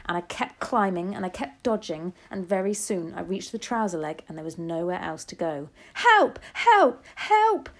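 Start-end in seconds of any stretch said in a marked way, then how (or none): 5.9-7.7 short, high, loud cries for help; screaming. A narrator's reading. Cook with a mouse in his trousers, screaming. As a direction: scream for rescue in high bursts. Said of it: "the man was screaming".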